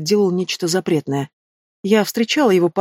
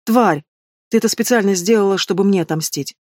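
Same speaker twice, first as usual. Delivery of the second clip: plain reading voice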